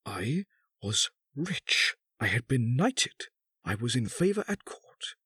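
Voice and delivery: high, deliberate recital swelling to an outburst; bitter accusation. A narrator's reading. Husband recounts the bought marriage, bitterly accusing. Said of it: "The old man continued".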